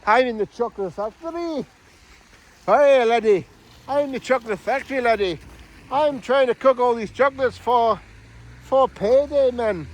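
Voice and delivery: put-on Scottish accent. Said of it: "I'm Scottish, you know".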